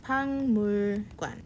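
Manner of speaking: 박물관 said as bangmulgwan, K turning to NG before M; 박물관 with the 기역 nasalised to ng; 박물관 pronounced bang-mul-gwan; Korean pronunciation. Shown as a demonstration. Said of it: "It sounds like this".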